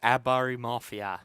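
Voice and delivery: lightly put-on Australian accent; a hint of an Australian twang. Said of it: "Do I do a good accent?".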